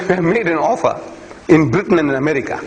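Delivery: normal talking voice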